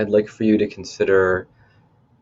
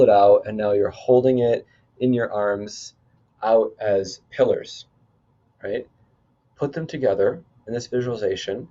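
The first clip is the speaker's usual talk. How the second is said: measured guide talking listeners through imagery; lightly held meditation-leader delivery; guided visualization. Acted. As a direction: lead them step by step, leaning on the key words. Leads a cleansing visualization.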